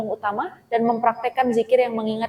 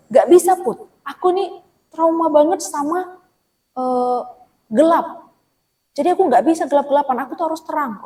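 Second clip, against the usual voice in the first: whiny refusing friend; 6 semitones higher, 4 dB louder than usual. Retold or imitated. Voicing traumatized friend's refusal.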